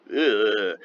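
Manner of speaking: drawn-out groan of disgust; mock "ugh" at a weird sight. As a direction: recoil with a loud, disgusted ugh. Reacting to strange creatures, acted.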